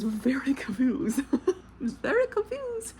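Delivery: breaking into a high, laughing squeak. Real, not acted. Reviewer admitting the book lost her, laughing. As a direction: laugh through it, pitch shooting up on the repeat.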